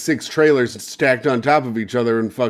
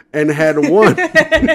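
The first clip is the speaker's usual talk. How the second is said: laughing; 3 semitones higher, 6 dB louder, slower than usual. Real, not acted. Laughs while reading news.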